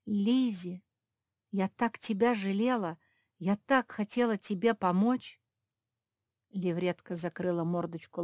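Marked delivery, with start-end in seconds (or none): 0.0-5.4 exclaimed. Acted. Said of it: "воскликнула".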